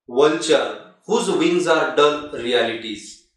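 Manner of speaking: measured, forceful reading of verse; poem recitation. Shown as a demonstration. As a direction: recite the quatrain deliberately, with weighty pauses. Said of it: "let me read first".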